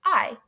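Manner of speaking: "I" said alone as a clear long vowel; "I" sounded out on its own. Shown as a demonstration. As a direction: isolate the vowel "I" for the class. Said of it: "that long vowel sound".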